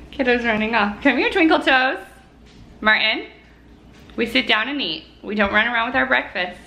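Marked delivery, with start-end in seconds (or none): 1.0-2.0 high, sweet coaxing call; singsong coaxing. Real, not acted. Coaxing toddler back.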